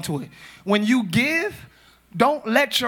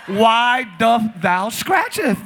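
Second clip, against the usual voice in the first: slow, stretched archaic question; hammed-up biblical speech; mock King James; much slower than usual. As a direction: intone it like old scripture. Mock old-English preacher question.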